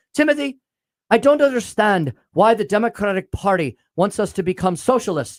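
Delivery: put-on strong Irish accent. Quoting a retired friend from church after Mass: Irish accent imitating Mary. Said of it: "she's got that strong Irish accent still".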